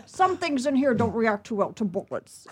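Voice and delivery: lightly voiced Scottish film line; a faint Sean Connery; Sean Connery impression. Retelling an audition impression, only a hint of Scottish. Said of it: "I did Sean Connery".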